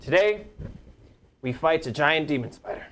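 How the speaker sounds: rally the troops from a soapbox; general speech. Acted. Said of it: "I'm gonna draw my sword and be like".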